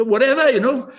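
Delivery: casual indifference. Retold or imitated. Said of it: "He's not saying".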